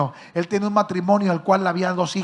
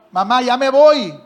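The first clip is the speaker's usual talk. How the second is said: loud, slow and drawn out; insistent goodbye; 3 semitones higher, 7 dB louder, slower than usual. Retold or imitated. Son pressing his mother for her blessing, slow loud call. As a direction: stretch it out, waiting for an answer.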